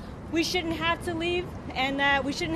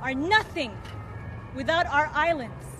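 poem recitation. Acted. Reads her poem aloud.

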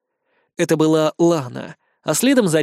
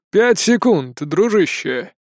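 very calm; 2 semitones higher, slower than usual. A narrator's reading. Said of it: "сказал полицейский очень спокойно".

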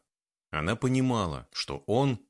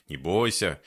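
ordinary delivery

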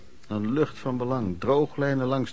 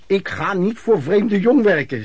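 slow, loud, higher mock of the drunk stepfather; stepfather quote; 5 semitones higher, 5 dB louder, slower than usual. Narrator mimics stepfather refusing to work, slow and loud. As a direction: spit it out like the stubborn drunk. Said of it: "zei hij altijd".

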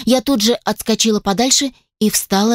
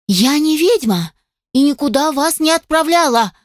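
yelling; 7 semitones higher than usual. A narrator's reading. She shouts back at the angry spirit. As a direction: shout back that you're no witch. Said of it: "заорала я".

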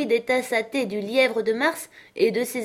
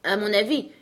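put-on higher-pitched, mildly dismissive young heroine; lightly acted defiance, pitched up; 5 semitones higher than usual. Alice gives the court her opinion of the verses, dismissive.

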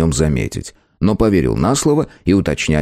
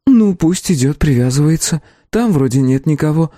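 calm; 9 semitones higher than usual. A narrator's reading. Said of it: "спокойно ответила хозяйка заведения".

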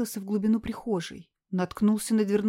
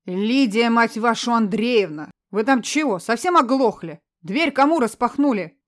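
angry yelling; 6 dB louder than usual. Acted. Drunk son yelling at mother.

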